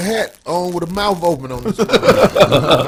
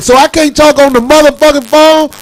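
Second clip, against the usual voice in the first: higher, louder indignant comeback; indignant retort; 9 semitones higher, 9 dB louder than usual. Retold or imitated. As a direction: throw it back at him, outraged. Retold retort to security.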